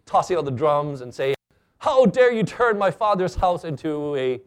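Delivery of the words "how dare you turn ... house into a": imitated outburst, a little raised; mild mock yelling. Intruder storming the stage during church, half-hearted outraged yell. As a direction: play an intruder yelling, held back. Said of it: "yelling and screaming".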